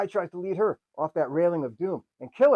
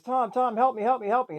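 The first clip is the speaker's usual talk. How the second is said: higher, louder hammed-up cry for help; mock plea for help; 9 semitones higher, 4 dB louder than usual. Girl clinging to the railing begging Tom, hammed-up panic.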